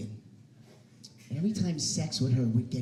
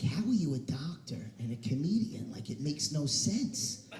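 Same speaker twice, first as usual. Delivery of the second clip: softer, hushed doubters; mock whisper; 5 dB quieter than usual. Audience doubting the doctor-comedian, hushed whisper. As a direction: whisper it like gossip. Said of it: "They're like".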